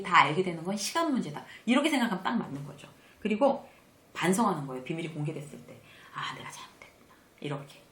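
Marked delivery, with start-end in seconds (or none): 6.1-7.1 hushed whisper, admitting a fault to yourself; whispered self-reproach. Retold or imitated. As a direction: breathe it out as a private realisation. Quiet self-reflection on a mistake.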